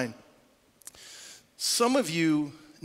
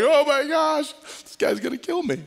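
mock panic; 9 semitones higher, 3 dB louder than usual. Lady panics in the car.

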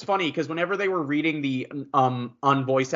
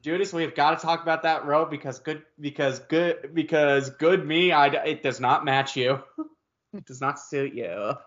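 sassy. Pretend. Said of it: "passive aggressive sassy".

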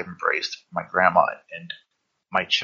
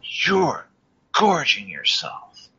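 imitating grandma; 8 semitones higher, much slower than usual. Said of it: "She said".

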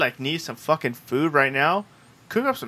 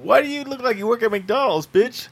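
higher, louder, sassy put-on voice; mock rude retort; 8 semitones higher, 5 dB louder than usual. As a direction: fire back like an insulted cashier. Voicing a rude retort to customer.

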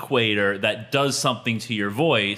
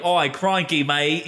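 mock Aussie twang, pitched up a little; twangy Australian accent; 3 semitones higher than usual. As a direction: put on a broad Australian accent. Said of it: "the twanginess of the American South".

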